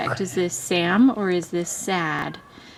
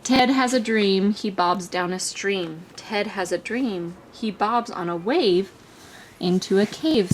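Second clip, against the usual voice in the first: sing-songy reading. Acted. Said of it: "sing-songy".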